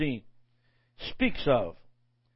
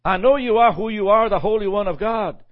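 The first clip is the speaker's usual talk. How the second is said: demon crying out; 3 semitones higher, 5 dB louder than usual. Retold or imitated. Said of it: "He didn't rebuke all the demons".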